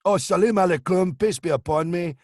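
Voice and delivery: orator's pompous greeting; George Galloway. Acted. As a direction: impersonate a politician addressing the crowd. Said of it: "I think it was George Galloway".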